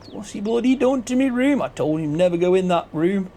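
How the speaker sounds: gruff farmer grumbling about his room; hammed-up farmer voice; gruff character voice. The speaker voice acting a scene.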